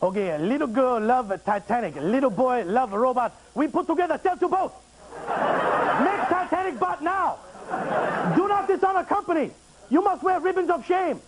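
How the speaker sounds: high, clipped fake Asian accent boss; mock Asian dialect. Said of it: "anytime you do an Asian dialect".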